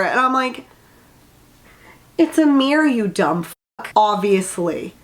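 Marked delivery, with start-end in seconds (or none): 2.2-4.9 exasperated retort. Real, not acted. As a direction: spell it out like she's an idiot. Reviewer scolds character, exasperated.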